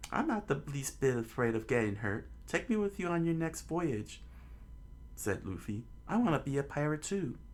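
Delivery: put-on high, fast boyish pleading; eager kid. Luffy begs Shanks to take him, high eager kid voice. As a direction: beg to come along.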